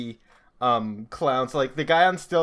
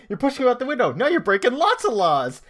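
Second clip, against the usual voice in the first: mock cop voice; 8 semitones higher, 3 dB louder than usual. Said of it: "he's like".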